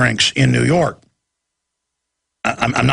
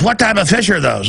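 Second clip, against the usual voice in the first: higher prying lady voice; mock nosy woman; 5 semitones higher than usual. Mocking a stranger at the pet store, higher voice. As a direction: imitate the busybody asking.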